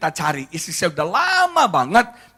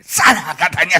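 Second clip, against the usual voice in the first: loud, raised "go away"; mock rejection; 2 semitones higher, 7 dB louder than usual. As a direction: shove them off with the voice, imitating. Wife pushes away his touch.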